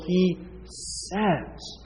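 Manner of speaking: "says" set apart after a pause; stress on SAYS. Real, not acted. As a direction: hold back, then land deliberately on "says". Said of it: "Present tense".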